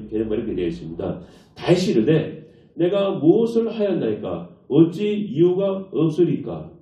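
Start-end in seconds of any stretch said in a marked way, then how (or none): 1.6-6.7 slow, drawn-out scripture line; slow solemn reading. Shown as a demonstration. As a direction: read it slowly, weighing each word. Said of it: "이렇게 말해요". (천천히 장엄하게 읽기)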